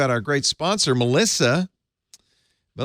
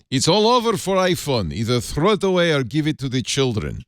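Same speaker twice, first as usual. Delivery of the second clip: put-on quoting an official in a hammy Russian accent; lightly put-on Russian accent; 4 semitones higher than usual. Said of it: "We're all doing bad Russian accent".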